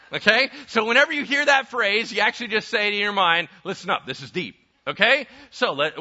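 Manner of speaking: loud, rising preacher's climax; full-force preaching. Acted. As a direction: drive it home to the congregation.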